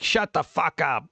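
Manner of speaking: a light, slow Carlin snarl, barely put on; George Carlin impression. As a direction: drawl it out flat and slow like a grumpy old comic. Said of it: "George Carlin, where he's like".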